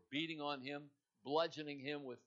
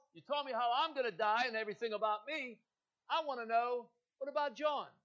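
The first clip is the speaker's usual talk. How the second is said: high, loud, indignant Peter pleading; high-pitched aggrieved whine; whiny protest; 7 semitones higher, 6 dB louder than usual. Acted. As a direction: complain like a jealous disciple.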